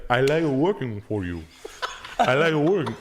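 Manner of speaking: loud mock-tearful Spanish accent; crying Spanish-accented giant. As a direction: whimper like a sweet big guy, hammed-up.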